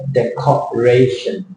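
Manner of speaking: slow "Decoration", syllable by syllable; DEC-O-RA-TION drawn out in pieces; split into syllables. Shown as a demonstration. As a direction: spell out the beats of "Decoration" slowly. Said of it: "gonna split like this".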